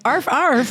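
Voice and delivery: spoken arf-arf barking; imitated dog bark. Friend hyping up a group chat selfie, playful dog bark. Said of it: "send a dog barking".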